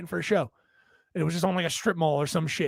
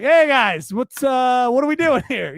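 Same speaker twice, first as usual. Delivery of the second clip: louder, calling to the water workers; called out; 4 semitones higher, 5 dB louder, slower than usual. Retold or imitated. Calling out to the water workers down the street, louder. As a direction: call out to the guys down the street. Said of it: "being like".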